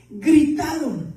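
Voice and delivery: Gritaron drawn out slowly and firmly; slow emphatic repeat. Shown as a demonstration. Pastor stresses to the church that the disciples shouted, slowly.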